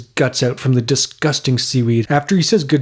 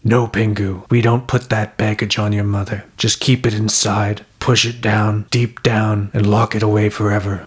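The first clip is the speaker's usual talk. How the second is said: dad voice; 4 semitones lower than usual. Acted. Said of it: "Dad cuts him off and says".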